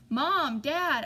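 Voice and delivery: calling loudly up the stairs; urgent shout up to the bedroom. A narrator's reading. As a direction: yell for your parents to wake them. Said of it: "I shouted".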